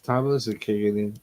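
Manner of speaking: slurring, words blurred together; heavy-tongued medicated mumble; slurred speech. Real, not acted. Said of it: "barely make out what you're saying there".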